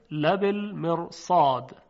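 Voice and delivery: slow لبالمرصاد with a heavy R; heavy tafkhim R. Shown as a demonstration. Teacher cues the recitation of the verse, heavy R in لبالمرصاد. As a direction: draw out لبالمرصاد, thickening the ر before the ص.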